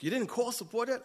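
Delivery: angry client on the phone, lightly imitated; mock client yell. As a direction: play the client half-yelling in disbelief. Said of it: "I got yelled at by the client".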